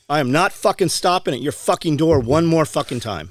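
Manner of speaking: heated retelling, punching the swear words; retold defiant anger. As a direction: dare them to come after you. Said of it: "You were so mad".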